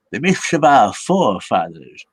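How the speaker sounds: drawn-out, put-on grandiose voice; mock-grand. Atheist host mocking the old myths of forefathers, mock-grand. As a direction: intone it slowly like an ancient legend.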